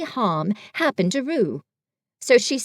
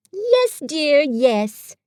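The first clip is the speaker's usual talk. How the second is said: soothing; 4 semitones higher, 3 dB louder, much slower than usual. A narrator's reading. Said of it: "said Kanga soothingly".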